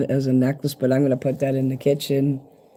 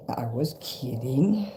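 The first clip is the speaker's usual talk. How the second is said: softer, slow "I was kidding" with a rise; soft aside; 8 dB quieter, slower than usual. Real, not acted. Reassuring Kim, soft slow teasing aside. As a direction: drop way down and tease. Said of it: "I was kidding about the bugs".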